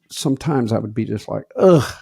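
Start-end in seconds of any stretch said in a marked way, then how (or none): 1.6-1.9 loud, high "ugh"; exasperated groan. Retold or imitated. Dad starts another long story, exasperated groan. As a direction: groan in dread, imitating past self.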